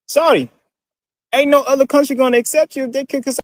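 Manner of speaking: fake Southern accent. Replying to a commenter in a fake Southern accent. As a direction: play it as an overdone Southern accent. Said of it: "the worst shouting I've ever heard".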